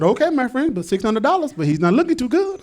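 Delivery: put-on Hispanic seller's accent. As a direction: answer back in a Hispanic accent. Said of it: "Hispanic guy".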